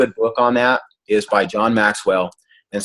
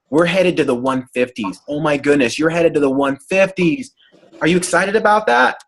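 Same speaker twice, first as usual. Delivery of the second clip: cheerleading client; 3 semitones higher than usual. Retold or imitated. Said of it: "she set the tone for".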